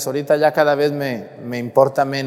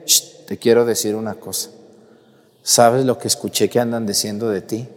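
hushed gossip; 4 semitones lower than usual. Retold or imitated. A busybody confides the rumor to a parishioner, hushed. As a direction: lean in and share a secret, hushed. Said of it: "llega y te dice".

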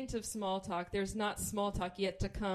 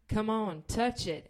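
pushy coaxing; 4 dB louder, slower than usual. Retold or imitated. Pressing the proposition.

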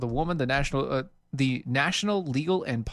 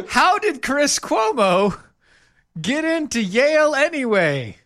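mock puzzled; 11 semitones higher, 7 dB louder, slower than usual. Mock puzzled rhetorical question.

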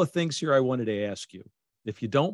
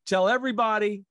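higher, louder, mock exasperated no more; mock fed-up cry; 10 semitones higher, 4 dB louder than usual. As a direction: cry it out like you've had enough. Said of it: "I've had it".

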